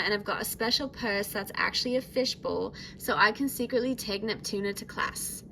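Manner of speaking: lightly put-on Australian accent for a character profile; Australian accent attempt. Vlogger reads Laguna Blue's profile to viewers in an attempted Australian accent. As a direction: read it with an amateur Australian-British blend accent. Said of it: "should I do the accent?".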